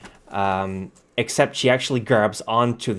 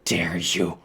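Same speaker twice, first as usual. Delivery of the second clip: low, slow villainess menace; menacing indignation; 4 semitones lower, 4 dB quieter, slower than usual. Acted. Wounded lady staring at her attacker, slow menacing indignation. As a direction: draw out each word, low and cold. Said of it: "as she's staring at you".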